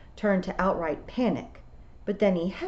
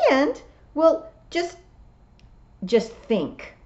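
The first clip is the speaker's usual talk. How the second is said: toad voice; 9 semitones higher, 5 dB louder, slower than usual. A narrator's reading. Toad voice, drawn out.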